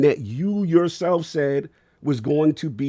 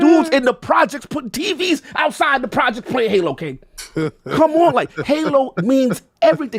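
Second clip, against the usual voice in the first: much higher and louder, impassioned; emotional; 10 semitones higher, 7 dB louder than usual. Real, not acted. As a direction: shout your love for the game. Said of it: "'cause I'm getting emotional".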